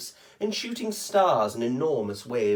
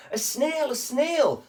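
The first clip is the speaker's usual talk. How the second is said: much higher, alarmed cry; startled teacher; 11 semitones higher, slower than usual. Acted. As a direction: shriek at the sight of a snail.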